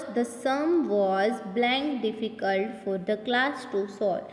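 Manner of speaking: very slow, word by word; slow reading. Shown as a demonstration. Teacher reads fill-in sentence to pupils, very slow. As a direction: spell the sentence out slowly for the class. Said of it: "teacher reads exercise sentence".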